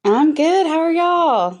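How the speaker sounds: Texas accent. Real, not acted. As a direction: greet the host in a natural Texas accent. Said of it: "I love the accent".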